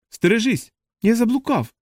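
значно вищий голос, гукає; гукни високо, попереджаючи своїх; тривожний вигук. A narrator's reading. Кузени падають і перегукуються. (тривожний оклик)

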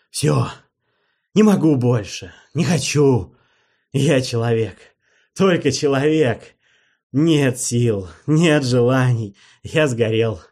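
desperate outburst. Acted. Герой в отчаянии кричит вампиру.

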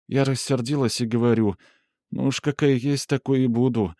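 lightly voiced timid girl; timid woman. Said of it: "начала робко".

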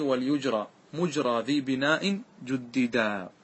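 slow, measured chant of the verse; slow classical verse recital; verse recitation. Shown as a demonstration. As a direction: recite the line of poetry slowly. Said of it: "هذا معنى قوله".

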